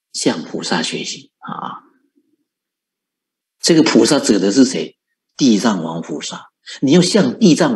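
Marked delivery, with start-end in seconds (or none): 0.1-1.8 soft, slow, half-whispered words; hushed repeat. Real, not acted. Teacher softly repeating the lesson to the congregation. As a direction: let the words sink in gently.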